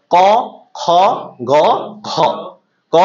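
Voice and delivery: each letter spaced out slowly and clearly; slow demo of ka kha ga gha. Shown as a demonstration. Teacher demonstrating the throat consonants to the class, slow and clear. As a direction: sound ক খ গ ঘ one by one from the throat. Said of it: "উচ্চারণ করেন".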